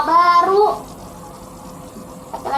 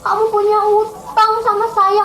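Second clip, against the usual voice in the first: accusing king; 5 semitones higher, 4 dB louder than usual. Acted. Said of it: "kata rajanya".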